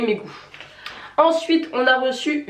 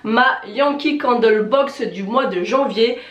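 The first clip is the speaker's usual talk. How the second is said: blocked nose. Real, not acted. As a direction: voice thick with a cold. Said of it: "vous avez pu entendre à ma voix". (voix enrhumée, nez bouché)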